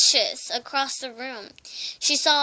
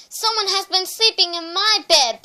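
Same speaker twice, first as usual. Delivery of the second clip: louder, higher bellowing bear voice; bellowing papa bear; 7 semitones higher, 7 dB louder than usual. A narrator's reading. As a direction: bellow it across the bedroom. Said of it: "Papa Bear bellowed".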